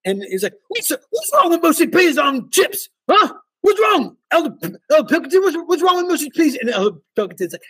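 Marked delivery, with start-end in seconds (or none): 0.7-6.6 higher, lightly voiced incredulous challenge; mock-indignant missionary. Retelling Elder Martin arguing for mushy peas, mild mock indignation. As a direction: needle him with a mild mock outrage.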